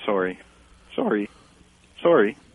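put-on Canadian 'sorry', varied intonations. Asked for the top Canadian phrase, saying it with a Canadian lilt. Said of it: "A few different intonations".

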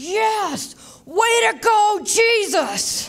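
mock loud yell, very high, yes stretched long. Retelling how Tommy jumped up and cheered at a play, retelling a loud yell. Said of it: "and loudly yelled".

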